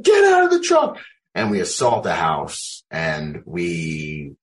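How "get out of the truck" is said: high, loud barked order to the squad; shouted command. Retold or imitated. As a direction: yell it like a squad leader getting men out. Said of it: "I'm the squad leader. I'm like".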